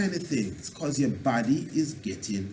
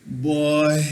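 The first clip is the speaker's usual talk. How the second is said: weary groan; 6 dB louder than usual. Shown as a demonstration. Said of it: "when people speak like that".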